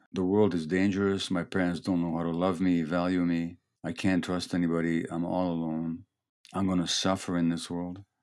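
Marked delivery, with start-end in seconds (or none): none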